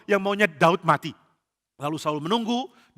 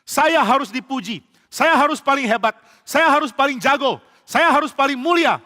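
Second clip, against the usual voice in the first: high, loud proud boasting; boastful king; 7 semitones higher, 4 dB louder than usual. Acted. Jealous king Saul boasts that he must be the greatest, high and loud. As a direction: puff yourself up and demand praise.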